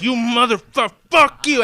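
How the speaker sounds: mock heckler yell. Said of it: "I was like".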